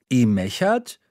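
put-on child trying out Franconian "I mechert"; Franconian dialect. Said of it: "sage ich".

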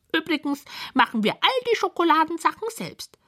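high, squeaky, proud listing of treats; bright high creature voice boasting; proud little creatures. Acted. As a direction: show off the fridge like tiny gluttons. Creatures brag about recipes.

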